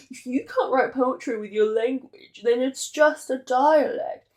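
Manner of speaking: mildly snooty put-on judgement, drawn out at the end. Language snobs dismissing a mere dialect, snooty. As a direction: lay down the rule with mock snootiness.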